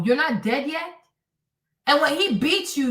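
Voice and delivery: ordinary delivery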